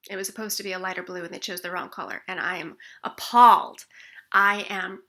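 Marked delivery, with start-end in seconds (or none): 2.3-5.0 appalled. Shown as a demonstration. Acting out upset at painters.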